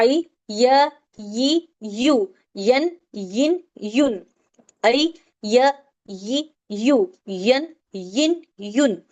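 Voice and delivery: slow, drawn-out syllables य यी यू यन यिन युन; drill recitation. Shown as a demonstration. Teacher drills the y syllables slowly for the class. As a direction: stretch each syllable slowly and clearly. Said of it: "हम इसको पढ़ के बताते हैं".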